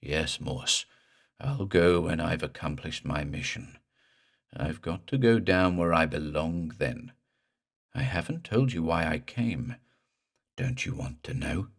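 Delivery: guttural drawl. Acted. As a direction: drag the words from a drowned throat. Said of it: "in the same guttural drawl as before".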